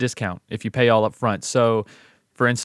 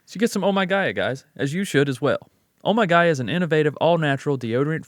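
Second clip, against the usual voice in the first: ad read. Acted. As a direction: sell it like a radio ad host. Host reads sponsor ad.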